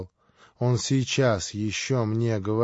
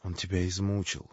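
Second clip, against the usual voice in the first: softer, gentle pity for his brother; with compassion; 4 semitones lower, 6 dB quieter than usual. A narrator's reading. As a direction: say it softly, full of sympathy. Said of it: "с состраданием". (с состраданием, тихо)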